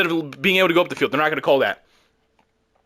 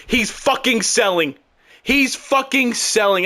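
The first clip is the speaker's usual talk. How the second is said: exasperated cursing; 6 semitones higher, slower than usual. Real, not acted. Cursing at the game, frustrated.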